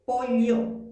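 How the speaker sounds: POLLO with a palatal "ly", loud; highland double-L. Shown as a demonstration. Teacher repeats her Arequipa pronunciation for students, highland double-L. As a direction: say POLLO as "po-lyo", like the Andean sierra. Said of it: "pronuncio pollo".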